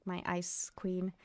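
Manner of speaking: slow whispered tease; soft whisper. Real, not acted. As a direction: breathe it like a secret pet name. Greeting a favourite character.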